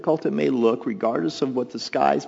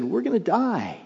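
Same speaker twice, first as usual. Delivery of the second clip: mock panic; 7 semitones higher than usual. Disciples' fear.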